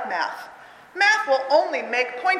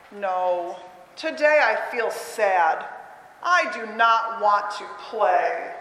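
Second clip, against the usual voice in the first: lower, slow, droopy reply; sad Pointy; 4 semitones lower, much slower than usual. Acted. Teacher reading to kids as sad Pointy, slow and low. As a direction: sound like a friend too sad to play.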